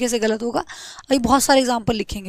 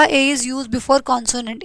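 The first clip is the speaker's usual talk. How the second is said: slow dictation; much slower than usual. Shown as a demonstration. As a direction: read out slowly word by word. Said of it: "उसके बाद मैंने यहाँ पे बोला". (धीरे-धीरे लिखवाते हुए)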